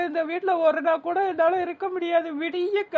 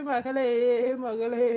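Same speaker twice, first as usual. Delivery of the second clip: lower, drawn-out mock wail; lamenting; 5 semitones lower, much slower than usual. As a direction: call out mournfully, hammed-up. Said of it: "ஒப்பாரி வச்சுக்கிட்டு".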